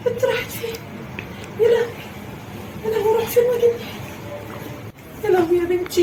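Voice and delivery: high anxious cries; worried mother searching; frantic search. Acted. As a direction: panic while searching. Searching frantically for lost girl.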